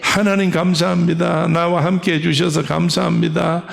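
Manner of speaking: steady, even-pitched prayer recitation; recited confession prayer. Shown as a demonstration. Preacher models daily thanks to God, steady recited prayer. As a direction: run the phrases on in one continuous confession.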